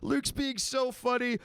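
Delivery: high, loud mock laughing fit; squealing pretend fan cracking up; imagined delighted listener. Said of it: "You'd go".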